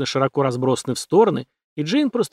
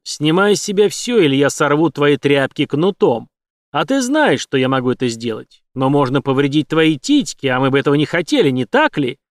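lightly voiced villain, louder than narration; menacing villain Ford; 4 dB louder than usual. Ford threatens Jane with his whip, lightly voiced menace. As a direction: threaten her with a touch of taunting.

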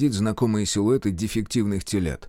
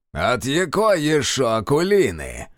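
feigned surprise; 3 semitones higher, 3 dB louder, slower than usual. Acted. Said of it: "делано удивился Киловяз".

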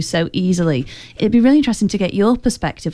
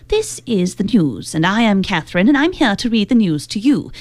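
imitation of old British broadcaster's RP; received pronunciation; 2 semitones higher than usual. Shown as a demonstration. Host demonstrating old UK broadcasting standard, in mock received pronunciation. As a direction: put on formal newsreader received pronunciation. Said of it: "what's called received pronunciation".

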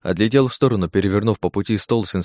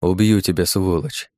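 without emotion; slower than usual. Acted. Hero coolly promises to kill the doctor, emotionless. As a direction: say it flat and deadly calm. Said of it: "без эмоций проговорил я".

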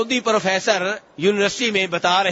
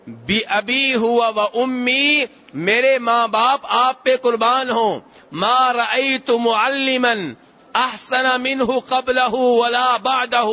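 slow, measured recitation of Arabic hadith; a preacher intoning the hadith in Arabic, slowly; 2 semitones higher, slower than usual. Acted. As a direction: recite each Arabic word slowly and devoutly.

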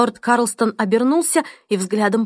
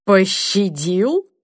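rising anger; much slower than usual. Acted. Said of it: "В голосе Бенчли нарастал гнев".

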